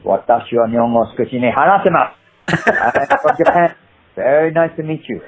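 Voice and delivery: put-on Japanese accent for an audition; Japanese, then English with a Japanese accent. Actor passing as Japanese at casting, Japanese accent. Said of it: "I'll speak in Japanese".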